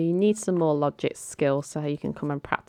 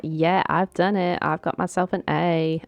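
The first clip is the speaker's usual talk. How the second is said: playfully imitating someone cheering for herself; mild mock cheering. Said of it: "she's cheering for herself".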